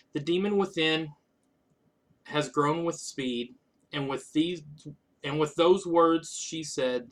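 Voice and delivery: measured, even poetry recital; poem reading. Acted. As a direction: read your old poem aloud line by line. Reads own old poem aloud.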